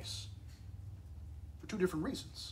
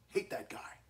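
mock whisper; 4 semitones lower than usual. Mock aside voicing God.

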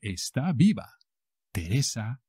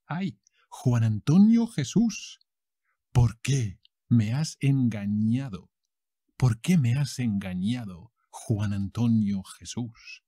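telenovela lament. Acted. Betrayed heroine wails at cheater.

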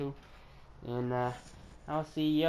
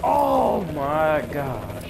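slow, stretched oh my gosh; drawn-out exasperation; 3 dB louder, much slower than usual. Real, not acted. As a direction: drag it out in disbelief.

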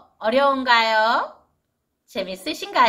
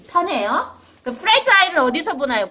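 normal talking voice

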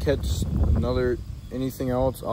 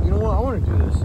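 excited; 7 semitones higher, 7 dB louder, much faster than usual. Retold or imitated. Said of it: "I'm like".

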